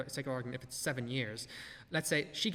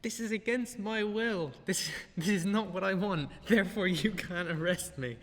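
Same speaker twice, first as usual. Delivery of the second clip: lightly higher mock whine of her excuse; mocking the woman; 5 semitones higher, 3 dB louder than usual. Vlogger mocking the arrested woman's excuse, lightly higher sneer. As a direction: parrot her line with a sneer. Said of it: "try that one".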